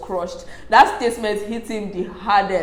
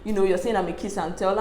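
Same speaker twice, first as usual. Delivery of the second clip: calm; 5 dB quieter than usual. Retold or imitated.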